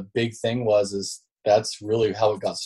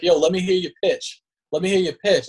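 imitating pushy Taylor, pitched up high; mock pushy buddy demanding a pitch; 7 semitones higher than usual. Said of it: "And he's like".

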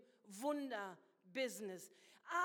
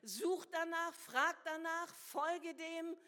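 fervent call; 4 semitones higher, 4 dB louder, slower than usual. Acted. Preacher calling out to congregation.

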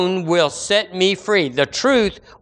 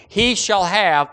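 He shall have with weight on He; emphatic stress; 2 semitones higher, slower than usual. Shown as a demonstration. Preacher driving home the promise, stressing He. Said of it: "That's the strongest Greek emphatic word".

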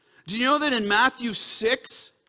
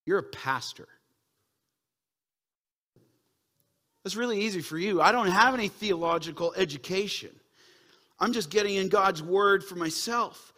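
voicing a doubting listener; 2 semitones lower than usual. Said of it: "you may say this".

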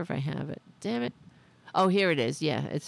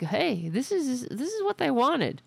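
mock Democrat voice; 6 semitones higher than usual.

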